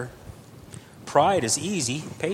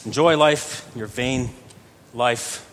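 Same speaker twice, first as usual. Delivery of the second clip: mock-sarcastic verse reading, broken into pieces; slower than usual. Shown as a demonstration. Preacher showing how the verse first sounds, sarcastic. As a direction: read it with a sarcastic edge, pausing before the last word. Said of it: "It sounds sarcastic".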